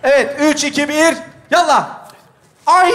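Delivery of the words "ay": high rising squeal; imitated brake squeal. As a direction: squeal upward like braking. Acts the brake, retake.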